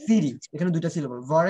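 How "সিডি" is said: ভার and সিডি each set apart; separated teaching beats on ভার and সিডি; syllable by syllable. Shown as a demonstration. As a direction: sound out ভার, ভার, then সিডি with gaps. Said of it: "নি একটা syllable".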